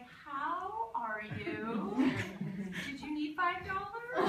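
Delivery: lightly high, overly sweet chat; mock polite greeting. Friend imagines her greeting a homeless ex, sweetly fake. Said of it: "Were you gonna be like".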